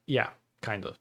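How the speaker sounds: ordinary delivery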